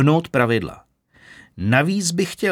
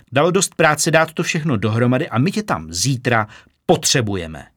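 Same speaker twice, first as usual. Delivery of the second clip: exasperated boss; 2 semitones higher than usual. Acted. Vlaher exasperated explaining to Kitka.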